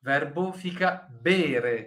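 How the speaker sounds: slow, deliberate correction; slow down to fix the mistake; "bere" said slowly and clearly, not "bevere"; careful correction. Shown as a demonstration. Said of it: "Cuidado, o verbo bere não é bevere".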